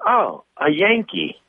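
high, very slow Southern Belle drawl; a Texas lady calling a Yankee, in a high, very slow Southern drawl. Retold or imitated. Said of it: "She goes".

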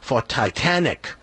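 lightly voiced mock-Chinese payback line; hint at a mock-Chinese accent, level and deliberate. Chinese guy explaining his punch, light mock Chinese accent. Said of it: "The Chinese guy goes".

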